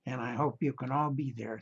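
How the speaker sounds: hoarse, gravelly speaking voice. Real, not acted. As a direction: talk through a rough, gravelly throat. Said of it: "my gravelly voice here".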